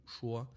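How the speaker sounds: soft "šuo" with a hushed sh; š without vibration. Shown as a demonstration. Teacher repeating the example, voiceless sh. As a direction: let air alone carry the š of "šuo". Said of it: "no vibration".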